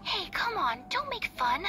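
bashful protest at a friend's teasing; flustered protest. Real, not acted.

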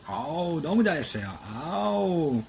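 high, loud doting praise; delighted praise for Mary; excited praise. Real, not acted. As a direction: gush over the good dog. Praising the dog at the end.

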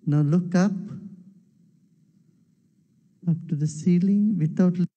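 slow, measured meditation instructions with long pauses; unhurried meditation guide; guided meditation. Acted. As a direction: lead the eye exercise calmly, leaving space after each instruction. Guides a meditation eye exercise.

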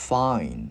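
FIND as "fain", closing on N without D; added N. Shown as a demonstration. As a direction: let "Find" end on the N. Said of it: "gắn cái chữ N vào". ("Find": thêm âm N ở cuối)

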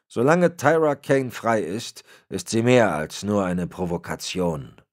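disappointed superior laying down the law; a hint of a menacing patriarch; Berlitz, cold old boss. Berlitz explains stakes.

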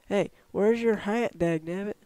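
half-hearted shriek at a newcomer; mild mock shriek. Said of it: "shrieks and waves at you".

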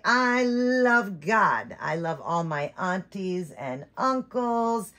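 voicing the doll.

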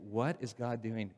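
soft slow wonder; quiet amazed question; awed hush. Retold or imitated. Awed inner thought.

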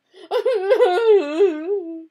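high, loud howling wail like a hurt dog; giant's howl of grief; wounded-dog howl. A narrator's reading. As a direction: let out a huge grieving howl. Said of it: "let out a howl like a wounded dog".

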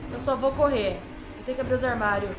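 ordinary talk, nothing marked

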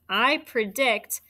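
slow, every word spaced out; teacher dictating the sentence; slow dictation. Shown as a demonstration. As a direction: dictate the whole sentence slowly. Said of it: "Which one?".

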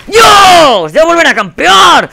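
high, loud, drawn-out yell; exasperated shout. Real, not acted. Player yelling at returning campers, outraged shout. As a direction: shout in real outrage, stretching the words. Enemies camp him again.

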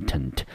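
tent as a reduced "tuhnt"; weak final syllable. Shown as a demonstration. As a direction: say tent with a neutral "uh" vowel. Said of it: "我们就念成tent".

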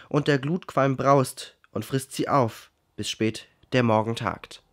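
measured, declaimed poetry reading; poem recitation. Acted. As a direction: read the verse aloud, firmly, with pauses. Reads the poem aloud.

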